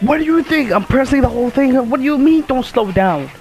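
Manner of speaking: high-pitched, rapid comeback, easing down at the end; indignant disbelief. Real, not acted. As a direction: protest the order in exasperated disbelief. Snaps back at game character's order.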